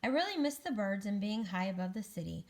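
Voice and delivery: animated, measured storybook reading; picture-book narration. Acted. Egg tells children about a great fall, storybook narration. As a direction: read to children with lifted key words.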